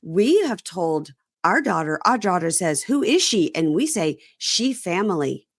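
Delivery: slow mock broken English; lightly voiced clumsy foreign English. Host mocking a cast member's broken English to his girlfriend. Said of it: "speaks to her in this broken English".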